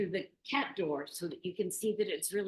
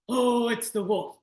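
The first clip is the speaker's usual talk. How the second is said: put-on frightened kids; 6 semitones higher, 11 dB louder than usual.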